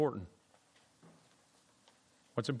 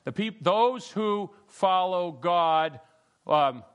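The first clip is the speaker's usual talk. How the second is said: slow emphatic paraphrase; 3 dB louder, slower than usual. Shown as a demonstration. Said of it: "Say it in your own words".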